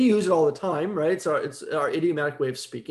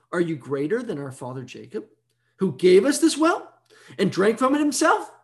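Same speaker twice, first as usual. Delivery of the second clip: politically charged challenge. Acted. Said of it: "A little political charge there".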